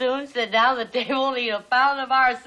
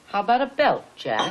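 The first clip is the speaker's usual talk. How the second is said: easy, cool, nonchalant tough talk, said with conviction; 3 semitones lower than usual. Coaching someone on how to deliver a line, showing it cool, like you mean it. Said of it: "you gotta say it like you mean it. Only cool, see?".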